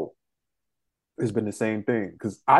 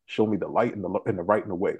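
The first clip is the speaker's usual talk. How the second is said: quick prayer; 4 semitones lower, 4 dB quieter than usual. Retold or imitated. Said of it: "said a quick prayer".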